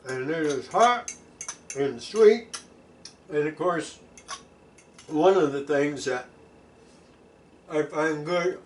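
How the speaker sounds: talking while eating; words round a bite of food; mouth full. Real, not acted. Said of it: "don't like to talk with my mouth full".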